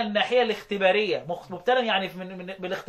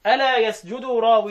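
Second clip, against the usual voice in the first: slow verse recital; 5 dB louder than usual. Shown as a demonstration. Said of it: "البيت اللي بعد كده بقول إيه".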